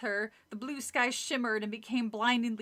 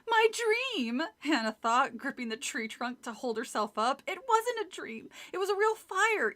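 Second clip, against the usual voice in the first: shocked realization; 4 semitones higher than usual. Acted.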